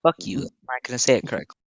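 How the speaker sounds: talking while chewing gum; words around a wad of gum. Real, not acted. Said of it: "I've gum in my mouth".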